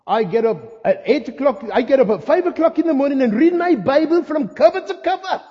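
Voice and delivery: loud, rising preacher's boast; boastful pastor. Acted. Pastor boasts to congregation in every sermon, hammed-up declaiming. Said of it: "I went and saw my pastor".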